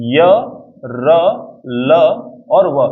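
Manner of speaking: "य, र, ल और व" sounded one by one, drawn out slowly; slow, isolated "य, र, ल और व" without aspiration; little air. Shown as a demonstration. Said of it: "इनमें कम हवा आ रही है".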